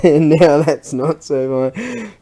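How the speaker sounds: slow, loud, laughing complaint; amused dismay. Real, not acted. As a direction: drag it out through a laugh. Laughing at the failed part.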